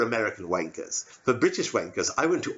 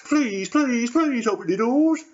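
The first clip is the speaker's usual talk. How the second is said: pleading; 9 semitones higher, 4 dB louder than usual. Acted. Begging at the pub door.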